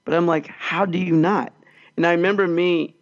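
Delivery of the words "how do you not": mild, slow disbelief; understated retold astonishment, words spaced out; blown away. Lecturer baffled by the student, mildly blown away. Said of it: "I was just so blown away".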